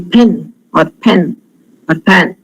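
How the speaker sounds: PIN, PEN, PAN with a puff of air after each p; p released with breath in "pin", "pen", "pan"; English aspirated p. Shown as a demonstration. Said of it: "So the English pronunciation would be".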